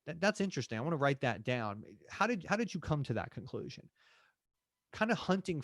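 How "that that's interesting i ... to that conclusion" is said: demo agent line. Shown as a demonstration.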